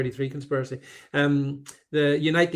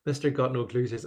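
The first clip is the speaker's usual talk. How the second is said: Andy Burnham impression; 3 semitones lower, 4 dB quieter than usual. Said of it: "I like your attempt at a Manchester".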